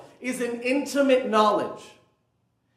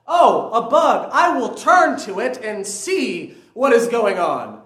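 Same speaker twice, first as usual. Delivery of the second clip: mock self-narration; 8 dB louder than usual. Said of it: "No one self-narrates their own actions".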